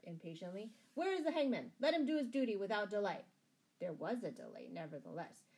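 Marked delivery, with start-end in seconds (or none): 1.0-3.2 loud, higher call for action; impatient demand. A narrator's reading. Sheriff to his men at the gallows, impatient loud demand. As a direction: demand it at once, raised voice.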